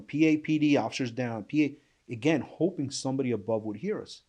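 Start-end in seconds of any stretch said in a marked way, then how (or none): 0.0-2.1 called out higher and louder, like shouting up through rubble; half-shouted call for backup, replayed in the telling; mild mock yell of an officer-down call; retold yelling for help. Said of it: "so I just kept yelling".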